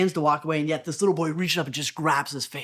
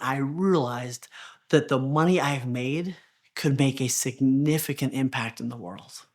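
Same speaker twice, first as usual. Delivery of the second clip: hushed, lower, slowed-down epiphany; sincere realization; 4 semitones lower than usual. Retold or imitated. Man's realization, story's emotional peak.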